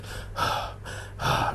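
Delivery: breathy, exhausted panting; heavy puffs of exhaustion; worn-out sighs. Retold or imitated. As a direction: sigh like a man half dead from hauling. Imitates exhausted man hauling pots.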